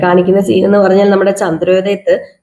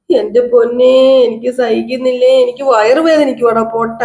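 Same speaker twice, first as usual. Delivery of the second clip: stretched, whining complaint, acted; mock pained wailing; 2 semitones higher than usual.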